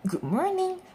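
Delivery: cheerful, high-pitched shopkeeper greeting; beaming greeting. A narrator's reading. Mister Fox welcomes a family into his shop, beaming. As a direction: greet customers with an audible beam. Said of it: "beams Mister Fox".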